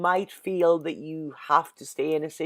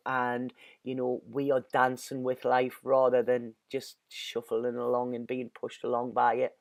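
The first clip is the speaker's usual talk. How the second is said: quietly sad; 5 semitones lower, 5 dB quieter than usual. Real, not acted. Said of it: "I'm still reeling a little".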